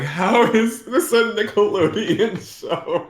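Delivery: awed mock disbelief; amazed disbelief. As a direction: marvel at it out loud. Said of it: "I'm like".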